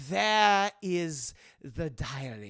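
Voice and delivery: slow, measured Nazi villain voice. Retold or imitated. Nazi demands the diary, slow menacing role voice.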